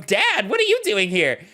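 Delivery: put-on surprised kid. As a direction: catch your father by surprise.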